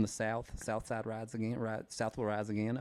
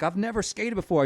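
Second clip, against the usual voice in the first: higher, louder playing dumb; mock clueless skater; 8 semitones higher, 5 dB louder than usual. Pretending to be a new Sonic worker, higher and louder. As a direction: announce you can't skate, pitched up and loud. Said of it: "I'm like".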